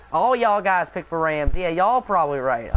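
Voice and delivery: playful Texan twang; light put-on Texan accent. Shown as a demonstration. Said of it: "I had to do the Texan accent".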